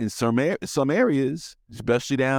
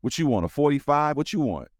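mock gun-dealer pitch; 6 semitones higher than usual. Pretend arms dealer offering guns.

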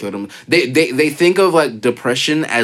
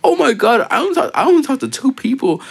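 high whiny mocking voice; mock whiny girl; 13 semitones higher than usual. Mocking his ex's dramatic complaint in a high whine. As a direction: squeal it like a dramatic teen. Voicing the attention-seeking ex.

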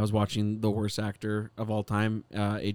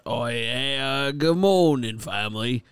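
drawn-out mock Cockney greeting; Cockney accent; slower than usual. Shown as a demonstration. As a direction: demonstrate an aggressive Cockney hello. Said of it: "Like that".

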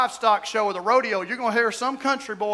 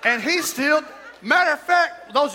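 excited shout; 4 semitones higher than usual. Real, not acted. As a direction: burst out in disbelief. Excited story about his son.

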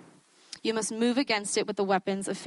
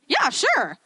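tag; 7 semitones higher, 6 dB louder than usual. Retold or imitated. Retold too-eager yes to testimony request.

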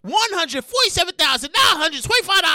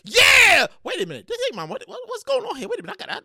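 pleased, then puzzled and hushed; confused and happy; faster than usual. Retold or imitated. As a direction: stumble through mock confusion. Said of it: "confused and happy at the same time".

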